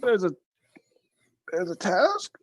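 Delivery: unvoiced hushed question; whispered surprise. Real, not acted. Player whispering to party about the surprise task. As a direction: breathe the question out in disbelief.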